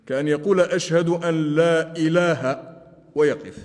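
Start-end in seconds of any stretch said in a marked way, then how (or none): 0.6-2.7 slow phrase cut off after "إله"; drawn-out "لا إله", then a stop; stop in wrong place. Shown as a demonstration. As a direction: halt on "إله" as if the sentence ended there. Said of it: "الوقوف في غير موقف".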